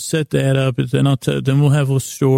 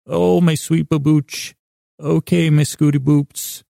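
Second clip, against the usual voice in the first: mock sweet-talk; 3 semitones higher than usual. Listener couple trading pet names, mock sweet-talk. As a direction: playfully coo at a sweetheart.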